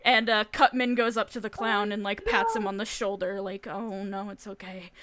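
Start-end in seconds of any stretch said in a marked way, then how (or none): 3.7-4.9 softening to a hush; gentle consoling. Acted. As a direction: soothe a sad friend quietly. Consoling pat on the shoulder.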